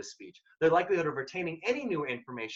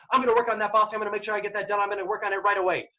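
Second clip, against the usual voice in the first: rapid, higher, louder, eager to please; fast eager reply; 5 semitones higher, 5 dB louder, faster than usual. Shown as a demonstration. Employee quickly promising the boss the work, rushed and eager. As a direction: rattle it off fast like a keen employee. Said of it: "someone's talking really quickly and you're saying".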